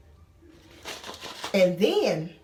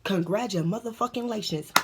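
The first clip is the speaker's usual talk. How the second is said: sarcastic; slower than usual. Real, not acted. Sarcastic reply to cellmate.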